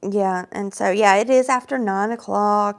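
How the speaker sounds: frog voice. Real, not acted. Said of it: "my frog voice tonight".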